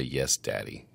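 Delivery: feed the line in a low voice; deep, unraised voice; low prompt. Shown as a demonstration. Prompts the reply she missed.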